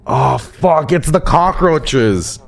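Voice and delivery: high mock-horrified wail; panicked shriek. Real, not acted. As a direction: freak out at the swarm of cockroaches. Panic at cockroach swarm.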